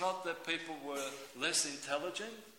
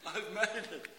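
higher pitch without the shout; spent, high-pitched relief; mock relief; 4 semitones higher than usual. Worker clocking on in time, mock relief. Same words, said softer after shout.

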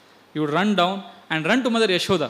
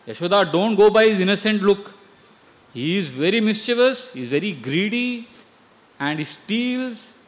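raised, louder accusing voice; indignant complaint; 5 semitones higher, 7 dB louder than usual. Acted. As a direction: press the complaint hard, pitch up. Gopi complains to Yashoda.

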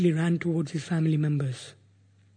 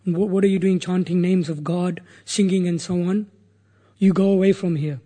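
raised-voice scolding, only mildly shouted; mild retold shout; 4 dB louder than usual. Hunter berating the sage in his way, mildly shouted. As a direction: retell an angry shout at moderate volume. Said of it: "although I started shouting at him".

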